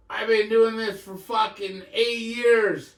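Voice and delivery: cocky braggart. Retold or imitated. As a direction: puff your chest out and brag. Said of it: "some dude talking shit to everybody".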